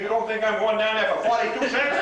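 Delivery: laughing punchline. Acted.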